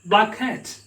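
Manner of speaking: "Black cat" with one shared k, run together; American linked black cat. Shown as a demonstration. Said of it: "it sounds like what".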